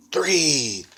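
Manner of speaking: sudden high yell; loud shout. Acted. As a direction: shout the final count. Witch ends the countdown.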